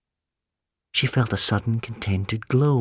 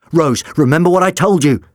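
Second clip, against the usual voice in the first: implored; 6 semitones higher, 5 dB louder than usual. A narrator's reading. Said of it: "the doctor implored the vision".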